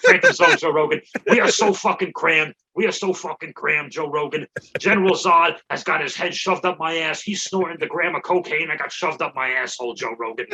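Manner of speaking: lightly voiced brash comic impression; Joey Diaz. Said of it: "That's a good impression".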